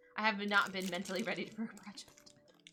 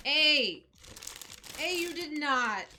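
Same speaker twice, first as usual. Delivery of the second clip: loud, high, slow disbelief; stunned by a surprise gift; shocked joy; 13 semitones higher, 4 dB louder, slower than usual. Real, not acted. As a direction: gasp it out in astonishment. Discovers gifted microphone, shocked.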